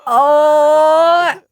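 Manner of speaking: high, loud oh; charmed by the name; delighted oh. Real, not acted. Player charmed by the name Meadow.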